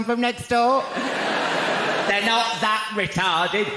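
high, loud indignant yell; mock outrage. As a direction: demand it as the outraged neighbour. Acts outraged neighbour reading letter.

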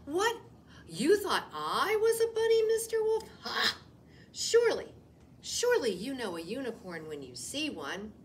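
high, loud huffy unicorn; outraged pretend unicorn scoffing; indignant unicorn. Rabbit posing as unicorn scoffs at the wolf, high and loud.

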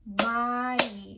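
"Mariela" drawn out in four even beats; syllable by syllable. Shown as a demonstration. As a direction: chant "Mariela" slowly as four distinct syllables. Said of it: "four syllables".

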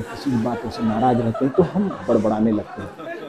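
half-laughing grumble to yourself, barely audible; muttered demo. Shown as a demonstration. Teacher demonstrating muttering to the class, softly under his breath. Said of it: "ऐसी आवाज निकालना जो सामने वाले को ढंग से सुनाई न दे".

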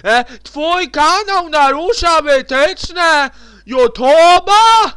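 slow, loud mocking complaint; mock nagging voice. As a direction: whine it like an annoying warning. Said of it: "bo mi znowu będzie". (przedrzeźniany, przeciągnięty głos)

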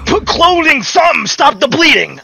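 high, frantic shouting at the screen; panicked high cry to stop the bleeding; panicked yelling. Real, not acted. Panicking over dying game character.

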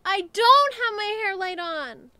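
loud startled exclamation; surprised exclaim. Real, not acted. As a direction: blurt it out in dismay. Realising mistake mid-video.

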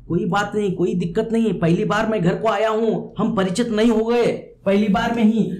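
ordinary delivery

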